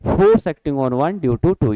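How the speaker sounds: spelled out slowly, word by word; slow careful reading. Shown as a demonstration. Teacher reads the notation aloud slowly to the class. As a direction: read it out slowly for the students. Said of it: "यानी कि".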